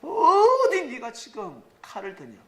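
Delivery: a master loudly rebuking his disciple for drawing a sword; stern rebuke. Acted. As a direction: drag out each word as a furious reprimand. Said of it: "주님이 베드로를 혼내셨습니다".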